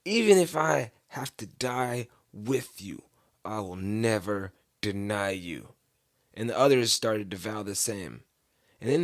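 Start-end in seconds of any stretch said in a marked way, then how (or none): 0.1-5.7 slow, deliberate vow; emphatic. Retold or imitated. Peter vows loyalty to Jesus, slowly emphatic. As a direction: weigh out each word of the pledge. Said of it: "Peter declared emphatically".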